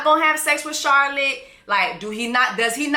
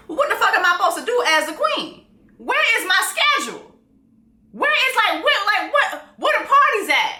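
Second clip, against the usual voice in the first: mock whiny queen; 9 semitones higher, faster than usual. Recap, voicing queen's bored complaint.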